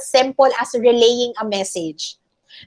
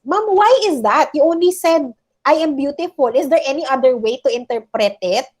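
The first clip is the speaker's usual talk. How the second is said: pitched-up imagined student query; mock student question; 2 semitones higher than usual. Teacher voices a student's question.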